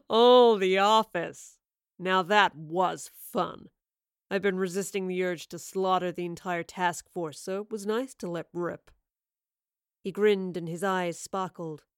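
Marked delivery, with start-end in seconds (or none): 0.1-8.9 gloating villain. A narrator's reading. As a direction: savour every word like a killer. Villain gloats over killings.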